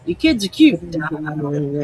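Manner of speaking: sweet Down East local flattering someone; lightly imitated Mainer; Maine accent quote. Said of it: "Or, you know".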